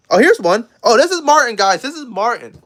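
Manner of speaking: loud, thrilled reveal; excited anime fan. Real, not acted. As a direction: gush over the picture. Showing crush's picture.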